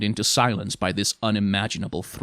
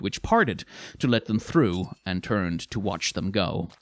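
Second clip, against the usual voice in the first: usual speaking voice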